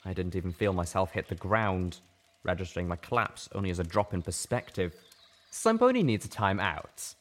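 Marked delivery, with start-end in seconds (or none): 5.5-7.2 dry remark. Acted. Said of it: "Lifebloom said".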